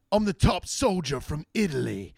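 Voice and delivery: mock Italian movie soldier with a thick Italian accent; imitating a movie actor's Italian accent; bad Italian accent. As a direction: ham up a fake Italian accent. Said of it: "your accent is fucking wild".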